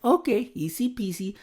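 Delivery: high, sing-song mock-casual quote; breezy reply. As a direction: imitate a breezy, easy-going yes. Wife's breezy reply, then corrected.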